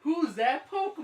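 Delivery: announcer voice. Retold or imitated. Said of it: "in between commercials".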